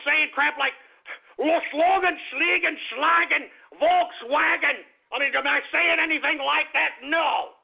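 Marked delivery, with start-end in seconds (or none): 1.4-4.9 mock German gibberish, slowed on the last word. Host mocking the idea he sounds German, mock German. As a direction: parody fake German sounds. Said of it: "does it sound like I'm German?".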